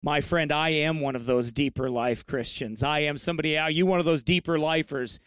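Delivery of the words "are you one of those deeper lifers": lightly mocking imitation. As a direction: imitate a scoffer's question with a touch of mockery. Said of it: "they say it in a mocking way".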